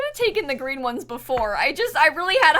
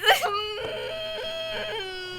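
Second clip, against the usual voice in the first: tearful whimper laugh; 13 semitones higher, 8 dB quieter than usual. Real, not acted. Upset over losing bingo.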